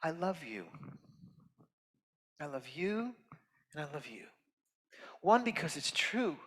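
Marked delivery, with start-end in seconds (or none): 0.0-3.1 a soft, sincere first I love you; tender. Real, not acted. Guest speaker to the audience, softly sincere. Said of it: "I'm gonna say this three times". 3.7-4.3 last I love you much softer, almost breathed; hushed. Real, not acted. Guest speaker to the audience, softest of three. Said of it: "I'm gonna say this three times".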